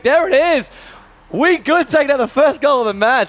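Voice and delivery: high-pitched, pushed celebratory call; excited goal call. Real, not acted. Commentator calling first goal of the match, excited. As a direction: burst out as the goal lands.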